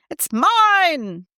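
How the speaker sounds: high mock child yell; squabbling sibling claiming the toy, mock yell. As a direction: yell it like a grabby kid. Kids arguing over a toy.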